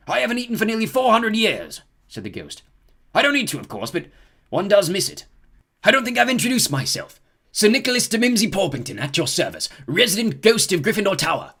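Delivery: Sir Nicholas. A narrator's reading. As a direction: introduce yourself grandly. Ghost introduces himself.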